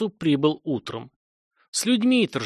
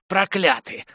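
«Проклятые» thrown out higher as a rasped curse; «Проклятые» pitched up, hoarse curse; cursing rasp; 6 semitones higher, slower than usual. Acted. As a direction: fling «Проклятые» at them. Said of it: "едва хрипел".

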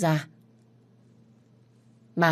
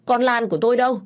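anguished demand; 7 semitones higher, 5 dB louder, faster than usual. Acted. Mother demanding her missing daughter.

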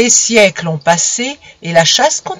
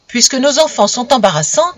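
mock shout; 5 semitones higher, 3 dB louder than usual. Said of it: "cria-t-il".

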